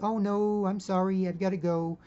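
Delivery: high, loud apologetic woman's voice; flustered lady. Retold or imitated. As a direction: brush him off nervously, up high. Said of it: "And she's like".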